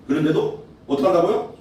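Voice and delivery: ordinary delivery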